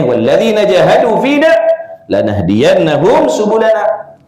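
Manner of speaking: measured Quranic chant; Quran recitation. Acted. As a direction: recite the Arabic verse in reciting style. Quoting a Quran verse.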